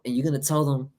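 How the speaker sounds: holding back a sneeze; about to sneeze. Real, not acted. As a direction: talk through a coming sneeze. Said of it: "excuse me, I was about to sneeze".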